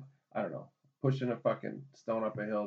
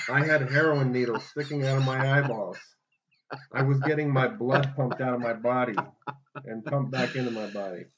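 loud; 3 semitones higher, 11 dB louder than usual. Acted. Joking loud rant.

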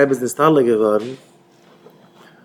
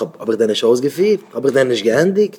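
quick rhetorical questions. Retold or imitated. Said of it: "דאן מוז דער רבי געזאגט".

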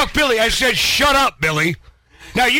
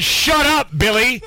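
retold shout; 2 semitones higher, slower than usual. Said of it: "I said".

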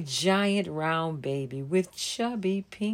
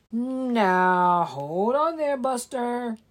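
bunny shouting, higher and louder; shouted; 6 semitones higher, 6 dB louder, slower than usual. Acted. Brown bunny shouting at the digging leprechaun. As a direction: yell to stop him digging. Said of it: "a brown bunny shouted".

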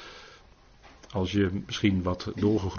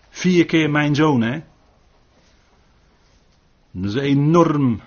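emphatic; 5 semitones higher, 7 dB louder than usual. Real, not acted. Preacher stresses the lament.

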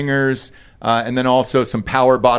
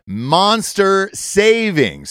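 hyped drawn out; 6 semitones higher, much slower than usual. Acted. Ad hype line.

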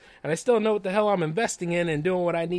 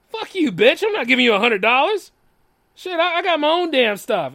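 louder and higher, cursing her out; retold angry retort; 5 semitones higher, 5 dB louder than usual. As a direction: snap it back at her, fed up. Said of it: "and I said".

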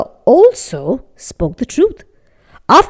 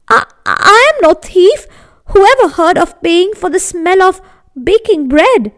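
pleading poor man; 7 semitones higher than usual. Acted.

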